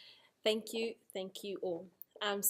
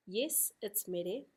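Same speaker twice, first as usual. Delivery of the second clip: slow agreement; slower than usual. Shown as a demonstration. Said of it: "give you a full example".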